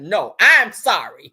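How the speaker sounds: drawn out, loud and slow; slow sarcastic sorry. Retold or imitated. Grandma dragging out her mock apology to the kid. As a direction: make it a grudging apology. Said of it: "She said".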